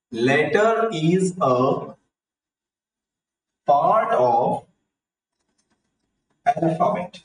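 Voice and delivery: very slow, long pauses between word groups; slow dictation. Shown as a demonstration. Teacher giving children the definition of letter, slow dictation. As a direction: dictate it piece by piece, drawn out.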